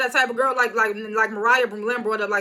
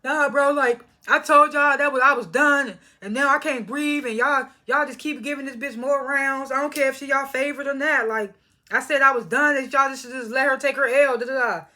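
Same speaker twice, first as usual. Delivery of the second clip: emotional; 3 semitones higher than usual. Retold or imitated. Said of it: "she started getting emotional".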